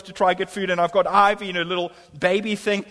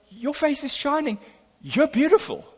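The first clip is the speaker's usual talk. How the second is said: higher-pitched, awestruck compliment; awkward awe; 5 semitones higher than usual. Retold or imitated. Preacher fumbles for words to the woman, awkwardly. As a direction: blurt it to a stranger, pitched up. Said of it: "I fumble for words".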